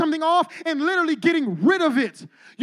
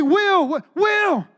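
calling out; 4 semitones higher, much slower than usual. Retold or imitated. Pastor spotting Will at the party, calling his name out.

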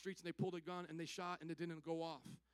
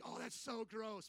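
slow, softer grossed-out groan of words; mock disgust; 4 dB quieter, slower than usual. Recalling when sushi came around, mock disgust. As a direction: drag it out, put off by the food. His old reaction to sushi.

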